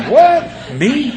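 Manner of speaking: very high, laughing surprise; mock shock. Man hearing his friend clutched her purse, high mock shock. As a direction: act out being stunned.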